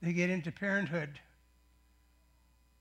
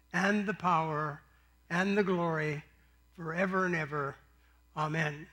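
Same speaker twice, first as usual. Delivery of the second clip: recited prayer. Real, not acted. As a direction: lead the church through the Lord's Prayer, each phrase spaced. Congregation prays Lord's Prayer together.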